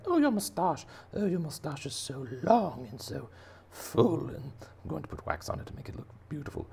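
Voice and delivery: high, squeaky little creature voice; fawning cleaner shrimp. Acted. Cleaner shrimp admiring angelfish's mustache, high fawning squeak. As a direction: gush in a tiny falsetto.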